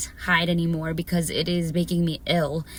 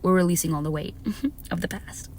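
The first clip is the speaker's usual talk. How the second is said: soft fast; 5 dB quieter, faster than usual. Real, not acted. Repeats softly, fast.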